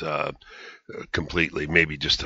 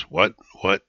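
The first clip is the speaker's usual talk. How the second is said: incredulous; 3 semitones higher, 4 dB louder than usual. Retold or imitated. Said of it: "You know, incredulously".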